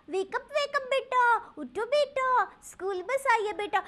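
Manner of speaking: mock pampering mother waking child; coaxing parent. Pampering modern parent voiced. (ਬੇਟਾ ਨੂੰ ਲਾਡ ਨਾਲ ਜਗਾਉਂਦੀ ਮਾਂ, ਮਿੱਠੀ ਆਵਾਜ਼)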